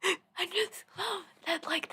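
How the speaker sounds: high, loud, drawn-out giggly delight; amused, laughing. Real, not acted. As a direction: say it through a real laugh. Amused aside after reading.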